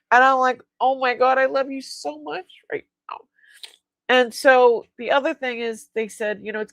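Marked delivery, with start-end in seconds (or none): 0.8-3.2 higher-pitched, delighted outpouring; replayed adoring relief; retold gushing gratitude. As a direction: gush thanks as if overjoyed. Retelling gratitude to the radiologist.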